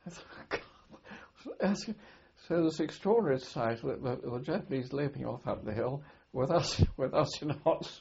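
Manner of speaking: laughing as you recount it; amused, laughing. Real, not acted. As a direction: tell it through chuckles, tickled by the absurd sight. Amused by enemy running away.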